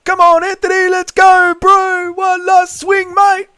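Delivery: high, exaggerated New Zealand bloke voice; mock Kiwi hype-man cheering on Anthony Smith; New Zealand accent. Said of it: "The New Zealand accent is".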